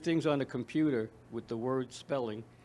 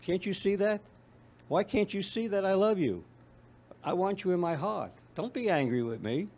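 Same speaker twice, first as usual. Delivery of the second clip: imitating her son; 6 semitones higher than usual. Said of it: "basically what he was saying".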